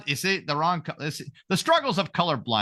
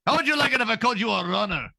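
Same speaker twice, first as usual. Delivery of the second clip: hammed-up indignant protest; playful affronted outburst; mock outrage; 4 semitones higher, 3 dB louder than usual. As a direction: act deeply insulted, for laughs. Acting out an insulted Russian.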